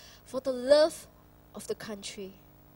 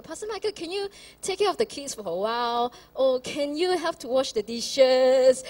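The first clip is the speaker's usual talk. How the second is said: wife asking for help; 6 dB louder than usual. Retold or imitated. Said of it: "when Michelle asked Pastor Michael".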